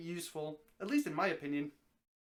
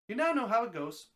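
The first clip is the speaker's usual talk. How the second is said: laughing; 3 semitones higher, 5 dB louder than usual. Real, not acted.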